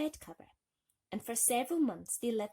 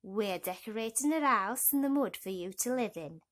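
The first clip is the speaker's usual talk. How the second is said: toad voice; 5 dB louder than usual. Acted. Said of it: "said the fat old toad".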